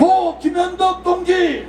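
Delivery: slow, drawn-out call of names; solemn roll call. Real, not acted. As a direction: call each name slowly for the crowd to repeat. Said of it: "한 분 한 분 말씀드리겠습니다". (느리게 부르는 추모 호명)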